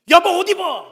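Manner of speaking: husband's loud, high-pitched order; acted urgent shouting. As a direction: call out urgently, as if bursting into the room. Husband bursts in giving orders.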